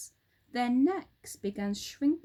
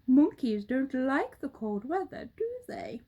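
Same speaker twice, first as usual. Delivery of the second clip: half-whispered bird question; sly bird voice; roly-poly bird; 3 semitones higher, 3 dB louder than usual. Acted. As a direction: tease the monkey gently.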